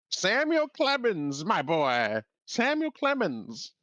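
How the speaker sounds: put-on high, slow folksy old gent; drawn-out Southern storyteller voice; Mark Twain.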